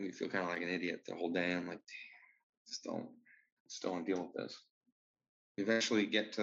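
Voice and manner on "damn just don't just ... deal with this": weary mutter to self. Retold or imitated. Inner grumble.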